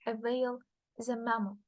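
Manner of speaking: "A vowel is a mammal" with a long fall; falling statement tune on "A vowel is a mammal"; falling intonation. Shown as a demonstration. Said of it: "A statement has a long fallen".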